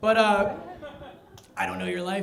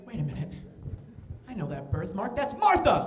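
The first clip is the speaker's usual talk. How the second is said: realization. Retold or imitated. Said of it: "You ever just feel like".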